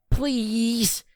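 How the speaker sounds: Kairi voice. A narrator's reading. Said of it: "Kairi murmured".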